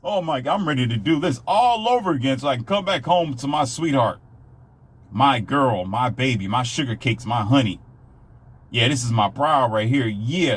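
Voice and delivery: mock-ecstatic man gushing over his wife; overjoyed whoop, doting on his sweetheart; husband who can't wait to get home, gushing; gushing happy husband. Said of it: "he'll wake up in the morning and be".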